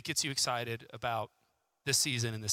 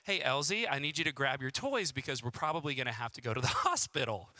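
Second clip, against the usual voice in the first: forced calm; 3 dB quieter than usual. Retold or imitated. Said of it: "as calmly as I can".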